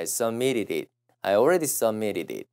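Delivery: "submitted it" with t's softened into flaps; fast linked pronunciation. Shown as a demonstration. Teacher repeating the hard-to-say "submitted it" for students, linked. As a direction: run "submitted it" together as "suh-mi-ri-rit". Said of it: "빨라지면".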